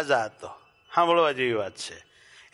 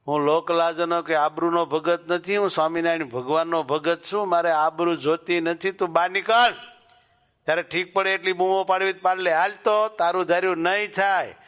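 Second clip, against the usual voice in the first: firm refusal, building; 2 semitones higher than usual. Acted. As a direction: stand your ground and rise as you go. Devotee refuses the woman firmly. (મક્કમ ઇનકાર, વધતા અવાજે)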